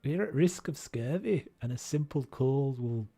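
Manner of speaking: put-on Scottish accent. Character warning the group about scurvy, mock Scottish accent. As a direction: read it out in a rough Scottish accent. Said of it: "Tune your Scots".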